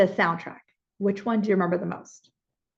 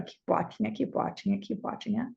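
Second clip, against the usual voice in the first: softer with each repeat; fading murmur; 7 dB quieter than usual. Acted. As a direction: let it fade to a hush. Fading repeated soothing prompt.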